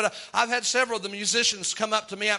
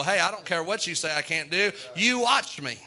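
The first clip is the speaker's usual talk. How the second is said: defiant retort. Retold or imitated. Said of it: "gonna tell the devil".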